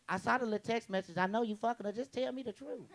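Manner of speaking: put-on softly sweet, coaxing girlfriend voice; sweet-sounding mock accusation. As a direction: coax it out nicely, like she won't do anything. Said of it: "they know how to sound nice".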